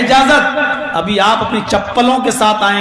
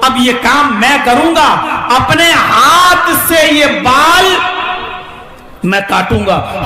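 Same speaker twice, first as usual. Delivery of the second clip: stern declaration; 3 semitones higher than usual. Acted. Umar declares he'll cut hair.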